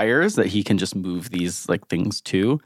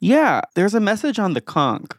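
higher-pitched character voice; Serica; 9 semitones higher than usual. Acted. Serica comes up to report a message, higher voice. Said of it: "Serica comes up and just goes".

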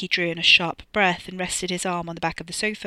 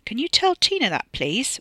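high, louder vindicated request; 6 semitones higher, 4 dB louder than usual. A narrator's reading. Wes asks Ricky to tell Tina, vindicated. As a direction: make the point, pitched up.

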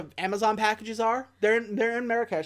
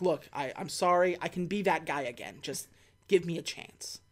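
low, soft acted apology; apologetic plea; 4 semitones lower, 5 dB quieter than usual. H begging T to take him back, apologetic. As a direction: plead quietly for another chance.

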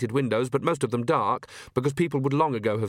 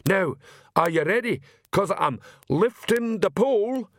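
excited troll; 9 semitones higher, slower than usual. Acted. Troll lifts the pole.

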